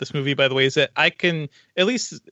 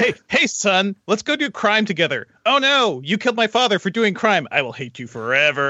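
mock father and son; 5 semitones higher than usual. Mocking father and son scene.

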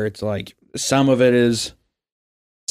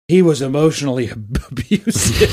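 laughing through a quote; 3 semitones higher, 3 dB louder than usual. Retold or imitated. Imitating the girl's claim.

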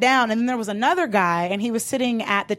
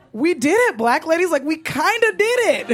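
triumphant; 5 semitones higher than usual. Retold or imitated. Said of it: "And I was like".

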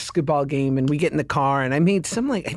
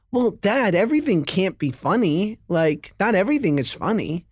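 reasonable adult. Retold or imitated. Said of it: "like a total reasonable adult".

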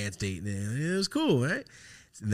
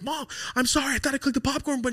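whiny apology; faster than usual. Retold or imitated. Kid's fake apology to mom.

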